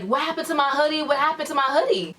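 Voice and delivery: retold yelling. Boyfriend demands his missing hoodie from Selena, mock yelling. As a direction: imitate a frantic repeated demand. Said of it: "like, yelling at Selena".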